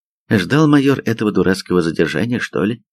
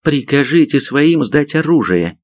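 slow, higher-pitched order; through gritted teeth; 6 semitones higher than usual. A narrator's reading. Sergeant orders major to disarm his men, seething. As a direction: force it out through clenched teeth. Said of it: "процедила старшина".

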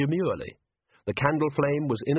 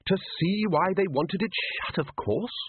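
Ridcully; 8 semitones higher than usual. A narrator's reading. Ridcully voiced in story.

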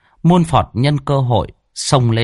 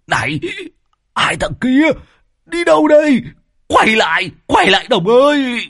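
much higher, louder desperate shout; calling out; 3 dB louder than usual. A narrator's reading. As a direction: call after them as they flee. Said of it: "vội vàng quay lại hô". (gọi to, giọng cao thất thanh)

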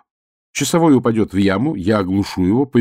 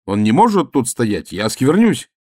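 louder indignant protest; angry shout; 4 semitones higher, 4 dB louder than usual. Acted. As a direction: keep shouting the objection. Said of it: "закричал я".

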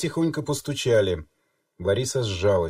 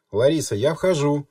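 громче и выше, объявляя; решительно объявить о своём приходе; громкое объявление; 5 semitones higher, 5 dB louder than usual. A narrator's reading. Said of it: "объявила Лиза". (громко объявляет, что входит)

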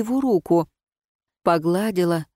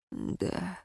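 low dull voice; 15 dB quieter than usual. Acted. Ron answers in a low voice.

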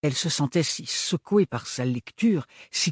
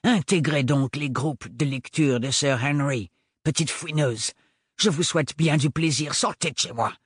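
mustache twirling villain. Acted. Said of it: "ordonna-t-il".

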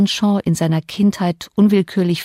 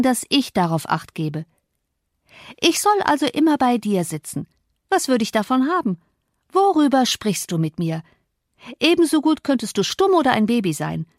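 put-on dismissive young Cathy; 2 semitones higher than usual. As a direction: brush him off with mild contempt. Cathy voiced in audiobook.

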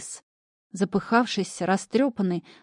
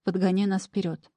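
plain reading voice

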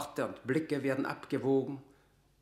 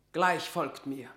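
angry command; 5 semitones higher, 6 dB louder than usual. Acted. Leicester challenges Burleigh.

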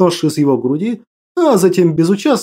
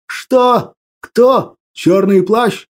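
baffled; 2 semitones higher, much slower than usual. A narrator's reading. Soldier confused by the name.

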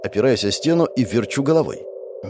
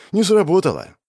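usual speaking voice

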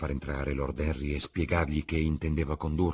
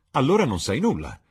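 Lord Henry, grave; 7 semitones higher, 7 dB louder than usual. Acted.

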